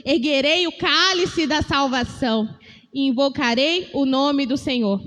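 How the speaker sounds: slow, measured reading of the verse; slow repeat reading; scripture reading again. Shown as a demonstration. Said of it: "Vou ler mais uma vez".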